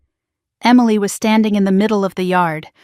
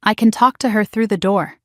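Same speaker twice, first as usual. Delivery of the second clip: usual speaking voice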